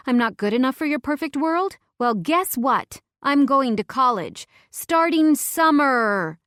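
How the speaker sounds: put-on loud, slurry drunken rant; drunken yelling. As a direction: yell it like a hurt drunk. Drunken furious text to Vincent.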